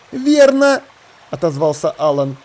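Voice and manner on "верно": doubting sailor. Acted.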